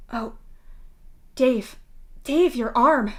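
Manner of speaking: shocked, rising alarm; gasping in shock. Acted. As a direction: gasp out his name in horror. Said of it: "Aradia gasps".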